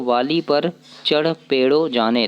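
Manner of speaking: slow, word-by-word reading of the scrambled line; jumbled words read out. Shown as a demonstration. Teacher reading the jumbled workbook line slowly to students. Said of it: "अब यहाँ लिखा है देखो".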